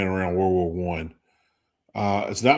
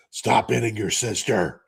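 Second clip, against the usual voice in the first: Batman voice. Retold or imitated. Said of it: "in a Batman voice".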